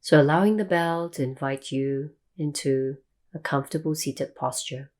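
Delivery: calm meditation guide, long pauses between phrases; guided meditation. Real, not acted. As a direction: ease listeners into stillness, leaving long silences.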